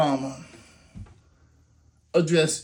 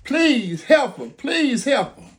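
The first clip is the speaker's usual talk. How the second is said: pleading scream; 4 semitones higher than usual. Retold or imitated. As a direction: beg desperately, rising on please. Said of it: "you hear them hollering and screaming".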